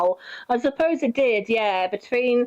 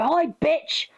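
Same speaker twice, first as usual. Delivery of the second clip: mock cheery greeting; 6 semitones higher than usual. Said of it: "come up to us and go".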